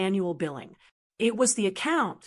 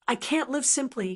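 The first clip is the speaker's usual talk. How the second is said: spat; 4 semitones higher than usual. Acted. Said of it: "he spat".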